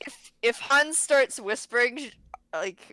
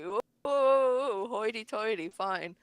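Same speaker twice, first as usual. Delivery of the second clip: drawn-out sarcastic whoa, dropping off; lightly mocking, then giving in; mock-impressed; slower than usual. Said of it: "as if to say".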